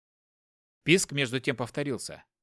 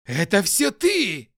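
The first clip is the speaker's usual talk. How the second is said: slow, louder, higher accusing yell; angry shout; 6 semitones higher, 7 dB louder, slower than usual. Acted. Hopkin accuses his wife's lover, angry shout. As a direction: jab the words at him. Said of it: "крикнул Хопкин".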